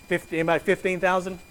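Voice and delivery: quick auctioneer patter, lightly done. Pretend. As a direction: rattle off the bids like an auction. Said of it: "Sound like an auctioneer up here".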